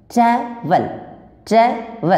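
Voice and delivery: ट्रैवल broken as ट्रै, pause, वल; teacher demonstrating the two syllables of ट्रैवल; split into syllables. Shown as a demonstration. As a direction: pause inside ट्रैवल, falling on वल. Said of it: "जब धीरे धीरे जो उसको पढ़िएगा".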